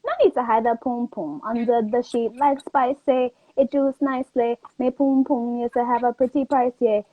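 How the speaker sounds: put-on Jamaican accent. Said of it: "Let me hear the accent. Go ahead".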